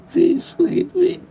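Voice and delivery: voice breaking. Real, not acted. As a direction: let the plea break into a whisper sob. Tearful prayer, pleading repeatedly.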